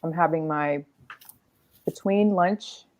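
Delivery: talking while snacking; crunching chips. Real, not acted. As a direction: mouth full of crunchy snack. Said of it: "if you hear me crunching".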